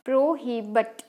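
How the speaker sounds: "प्रोहिबिट" broken into syllables, pro-hi-but; Indian English pronunciation. Shown as a demonstration. Teacher modelling the word for students, "प्रोहिबिट" syllable by syllable as pro-hi-but. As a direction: sound out "प्रोहिबिट" with a -bət ending. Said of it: "Indian English pronunciation में इसको".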